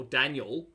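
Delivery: Daniel as DAN-yul, rhythm of Daryl; Daniel with a weak last syllable; no middle E. Shown as a demonstration. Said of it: "with no E in the middle".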